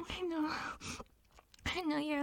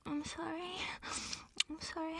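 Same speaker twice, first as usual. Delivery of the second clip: breathy whispered apology; 5 dB quieter than usual. Acted. Pet whispering an apology to her partner. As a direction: whisper it, ashamed.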